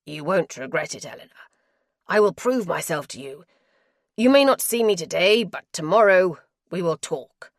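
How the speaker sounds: he begs her to stay, pressing hard; begging husband. Acted. Husband promises.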